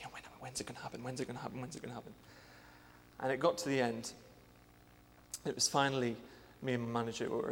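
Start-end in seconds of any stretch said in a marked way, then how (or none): 0.0-2.1 anxious inner whisper, much softer; nervous whisper. Retold or imitated. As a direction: breathe the worried thought under your breath. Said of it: "getting more and more nervous".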